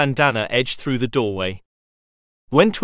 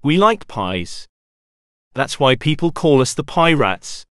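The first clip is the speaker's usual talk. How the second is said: rumbled. A narrator's reading. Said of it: "He simply opened his mouth and rumbled".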